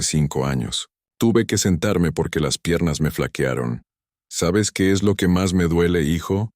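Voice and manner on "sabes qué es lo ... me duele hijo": voice barely breaking. Acted. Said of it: "Mi voz se quebró apenas".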